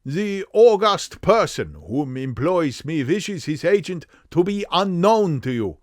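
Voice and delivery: high, emphatic German nobleman; stately, heavily German confession; strong German accent. Acted. Count confessing his title is false, strong German accent. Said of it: "a strongly marked German accent".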